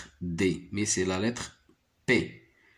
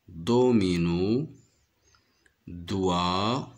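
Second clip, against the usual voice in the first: slow, careful reading of each word; slow listing; much slower than usual. Shown as a demonstration. Teacher to pupils, reading the word list slowly. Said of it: "Écoutez maintenant les quatre mots et repérez le son qui se répète".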